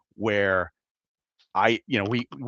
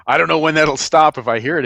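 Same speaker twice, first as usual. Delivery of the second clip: laughing; 7 semitones higher, 10 dB louder, faster than usual. Real, not acted. Laughing about reflex to alarm.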